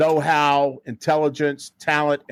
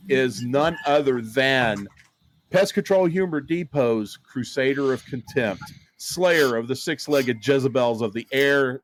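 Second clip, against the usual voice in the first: grand announcer intro. Acted. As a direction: hype the guest like a ring announcer.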